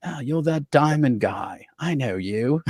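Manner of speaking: slow, put-on British accent; a rock star's British accent. British star recognizing someone backstage, imitated accent. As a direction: imitate a rock star's British accent, unhurried. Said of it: "in his very nice accent".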